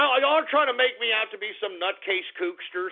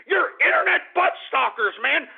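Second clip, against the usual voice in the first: raised, heated accusation; exasperated rant; 4 semitones higher than usual. Real, not acted. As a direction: jab it at the callers, fed up. Ranting at prank callers.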